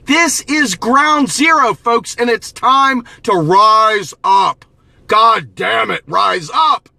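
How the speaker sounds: rally the crowd, drawing out each word; rallying shout. Real, not acted. Rallying call to rise up.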